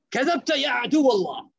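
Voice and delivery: fast retold shout in Arabic; defiant call. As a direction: call out a mock battlefield challenge to the enemy, rushed. Umar's retold defiant call to enemy.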